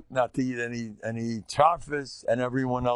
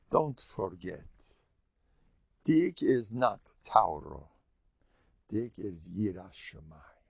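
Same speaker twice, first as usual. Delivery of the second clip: hushed reminder; 4 semitones lower, 3 dB quieter, slower than usual. Retold or imitated. Rabbi quietly reminding him.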